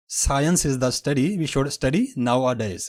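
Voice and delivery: very slow example sentence; slow demo. Shown as a demonstration. Teacher reading an example sentence slowly. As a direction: spell the sentence out word by word.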